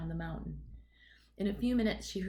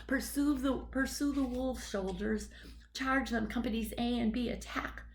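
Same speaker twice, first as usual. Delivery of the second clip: fierce shout; 4 semitones higher than usual. Acted. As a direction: bellow orders to fake an army. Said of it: "stomping and shouting out".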